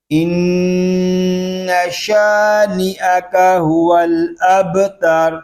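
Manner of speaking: slow, melodic recitation of the verse; Quranic recitation. Shown as a demonstration. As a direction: chant the verse in tajweed. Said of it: "اب پوری آیت پڑھیں گے". (قرآنی تلاوت کا انداز)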